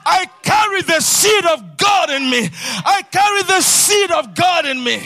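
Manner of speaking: rousing sermon cry; full-force preaching. Acted. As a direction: lift the crowd with every line. Preacher shouting affirmations.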